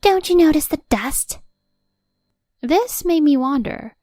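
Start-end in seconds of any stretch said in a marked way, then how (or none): 0.0-1.4 higher, louder scold; scolding question. A narrator's reading. Mother-in-law scolding over dust, louder scold. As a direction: snap the question at her.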